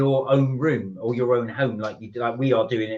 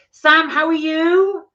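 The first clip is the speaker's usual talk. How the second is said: high sing-song greeting; 9 semitones higher, 4 dB louder, slower than usual. Acted. Greeting viewers by name.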